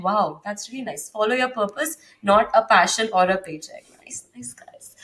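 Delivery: hushed, breathy podcaster whisper; mock podcaster voice. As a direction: whisper it like a smooth podcast host.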